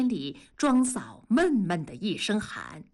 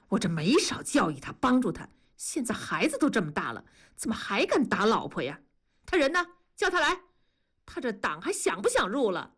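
exasperated grumbling with a sigh midway; mildly angry; faster than usual. Acted. Master fed up with the wife-beater, restrained anger. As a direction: grumble in disapproval, sharpening at the summons. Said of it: "孙师傅生气地说".

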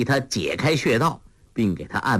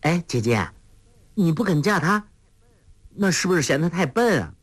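put-on high, playful, girlish teasing; smiling question; 6 semitones higher than usual. A narrator's reading. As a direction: ask with a smile, pitch lifting. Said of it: "黄蓉笑着问". (笑着俏皮地问)

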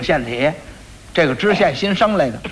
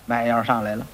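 usual speaking voice

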